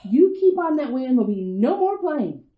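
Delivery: a mother warning her daughter, stern and loud; stern scolding. Acted. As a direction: lay down the law to your child.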